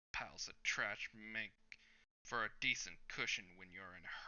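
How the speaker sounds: lightly voiced older hero explaining the rough landing. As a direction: shrug it off like a tired veteran.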